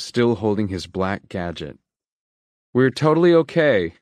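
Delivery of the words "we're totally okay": high, loud cheerful insistence; eager reassurance. A narrator's reading. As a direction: sell it to the guard brightly. Kalisha reassures the caretaker.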